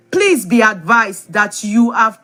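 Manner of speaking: measured read-aloud with deliberate pauses; formal letter reading. Real, not acted. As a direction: read out a legal notice, phrase by phrase. Reads a legal letter aloud.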